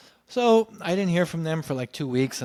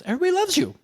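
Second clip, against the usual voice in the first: quoting the director; 5 dB louder, much faster than usual. Retold or imitated. Director praising him.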